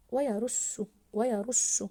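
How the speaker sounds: "ويرش" with a long doubled ش; stressed doubled letter. Shown as a demonstration. Teacher modelling the doubled shin, stressed doubled letter. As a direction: hold and press the ش in "ويرش". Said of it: "حرف الشين مضاعف".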